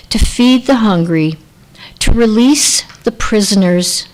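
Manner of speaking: measured, unhurried poem read to the congregation. Shown as a demonstration. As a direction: lay each line down gently with a pause after it. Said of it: "this is a poem I'd like to read".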